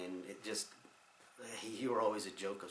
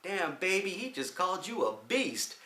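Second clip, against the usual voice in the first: imitating Donnie; 10 semitones higher, 6 dB louder than usual. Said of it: "Donnie turns around to Denise and goes".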